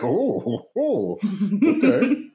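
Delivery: squeaky high, laughing, caught off guard; a flustered laugh that climbs way up into okay; stunned laughing okay. Retold or imitated. Answering his crypto-hating boss's NFT question, stunned and laughing.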